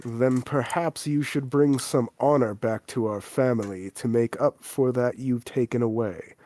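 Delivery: put-on a measured warning to a disgraced child; stern father.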